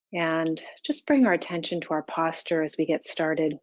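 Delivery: calm, even meditation guidance with long pauses; unhurried, level meditation-teacher delivery; guided meditation. Real, not acted. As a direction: guide them gently into stillness, leaving space between phrases.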